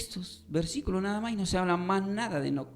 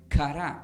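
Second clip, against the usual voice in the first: "kará" stressed on its last A; accent on final A. Shown as a demonstration. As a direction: put the weight on the end of "kará". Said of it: "pareciera que tuviera un acento en la A".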